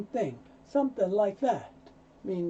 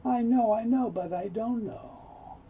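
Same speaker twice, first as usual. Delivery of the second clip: unsure, reluctant; 5 semitones higher than usual. Acted. Man who knows he should do it, reluctant. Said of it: "I don't know if I want to do it".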